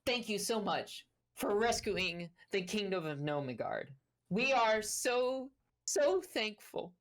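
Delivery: bow and thank the heroes with gushing gravity; formal grateful gnome. Acted. Korboz thanks the heroes for saving Nomigard, slow and high. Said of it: "and goes".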